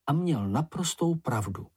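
ordinary delivery, nothing marked

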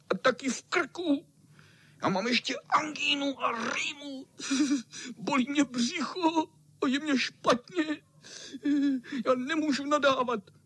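very high, whiny sick-cat voice; whimpering cat. A narrator's reading. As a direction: whine it like a poorly old tomcat. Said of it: "zakňovral kocour".

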